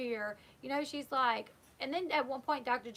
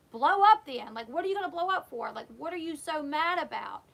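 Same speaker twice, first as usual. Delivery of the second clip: retold loud challenge; 3 semitones higher, 6 dB louder than usual. The speaker daring Josh to blow up, loud mock retort. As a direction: fire it back at him, daring.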